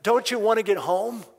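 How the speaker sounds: loud, high exasperated yell; retold soldier yell. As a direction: bark the question at the noisy kid. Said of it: "he yells at the boy".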